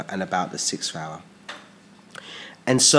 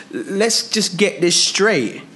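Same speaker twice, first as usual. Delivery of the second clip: high, loud, slow incredulous question; Pilate challenging; 11 semitones higher, 6 dB louder, slower than usual. Retold or imitated. Pilate confronts the crowd about their king, high and loud. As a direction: demand it of the crowd with mock disbelief. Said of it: "So Pilate said to them".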